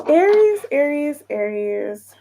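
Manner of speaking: fading call; calling out Aries. Real, not acted. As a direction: sing out the name, then settle. Calling sign, descending.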